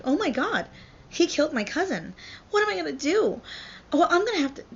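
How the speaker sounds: put-on high, loud melodramatic teen fretting; acted panic. Juliet learning of her cousin's death, mock panic. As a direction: play a frantic girl in over her head.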